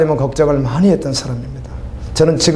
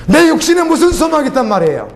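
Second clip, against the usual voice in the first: higher still, stress on 내; impassioned rhetorical cry; fervent preaching cry; 11 semitones higher than usual. Acted. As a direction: cry the question out, leaning on 내. Rhetorical question, intensified.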